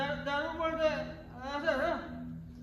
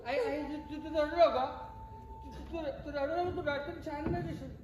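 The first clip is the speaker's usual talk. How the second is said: gentle soothing; 4 dB quieter than usual. Acted. Son comforting his crying mother.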